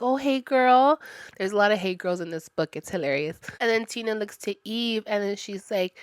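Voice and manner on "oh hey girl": put-on higher, louder bubbly "hey girl"; lightly mocking valley-girl greeting; preppy girl. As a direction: greet like a peppy preppy teen. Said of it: "very preppy, very happy".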